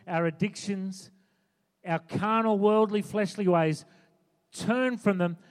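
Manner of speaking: earnest sermon delivery, pressing each line home; preaching. Acted. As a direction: urge the congregation toward sacrifice. Preaching to the congregation.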